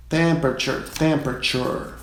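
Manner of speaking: temperature said TEM-pruh-chur, stress first; English temperature. Shown as a demonstration. Teacher models temperature for student pilots. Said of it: "Próxima palavra".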